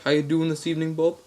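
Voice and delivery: chatty mock-Australian caller; Australian accent. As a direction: greet as an Australian prank caller. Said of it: "same Australian accent".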